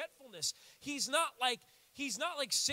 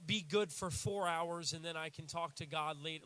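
lower, mopey guilty student voice; mock self-pity; 5 semitones lower than usual. Freshman in Bible college mocking his own guilty whining. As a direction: whine about being unworthy. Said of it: "I'm a freshman in Bible college".

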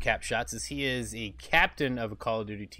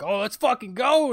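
hyped up; 10 semitones higher, 4 dB louder than usual. Retold or imitated. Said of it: "it's just like".

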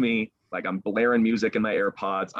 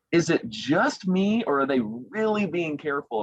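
anxious inner voice; 8 semitones higher than usual. Retold or imitated. Anxious inner thought, high.

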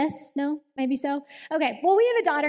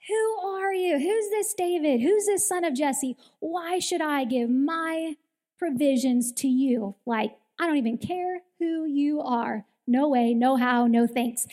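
seething reply; 3 semitones higher, 3 dB louder than usual. Retold or imitated. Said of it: "sends back this seething reply".

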